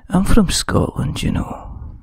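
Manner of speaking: put-on slow, loud jokey Scottish accent; mock Scottish accent. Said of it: "it was the A S M R stuff and go".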